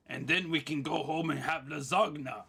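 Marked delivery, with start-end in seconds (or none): 1.6-2.4 "lasagna" with a hard g before the n; silent g voiced. Shown as a demonstration. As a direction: say "lasagna" as luh-ZAG-nuh.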